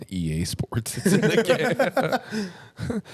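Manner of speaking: the slogan drawn out high and slow; mock high slogan. Friends mocking the EA slogan, high and slow. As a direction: stretch it up high like a squeaky parody.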